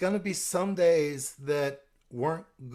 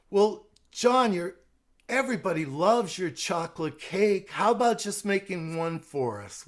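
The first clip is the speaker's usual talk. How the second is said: coaxing church friend; 4 semitones higher, 4 dB louder than usual. Shown as a demonstration. Susan from church coaxes John to bake, sugary higher voice. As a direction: voice pitched higher and louder, sweet-talking John. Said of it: "Susan Barber is at my church".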